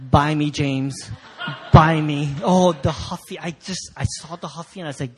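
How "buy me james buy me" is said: loud, drawn-out comic beckoning; calling bike. Acted. Bike in the store calls to the boy, loud and beckoning. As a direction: call out temptingly as the bike. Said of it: "It was calling me".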